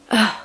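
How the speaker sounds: short exasperated "ugh"; disgusted groan. Real, not acted. Fed up with the talk show host, disgusted groan. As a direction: let out a groan of real disgust.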